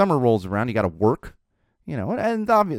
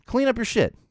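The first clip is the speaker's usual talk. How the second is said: exasperated order; 13 semitones higher than usual. Retold or imitated. Father scolding a messy kid.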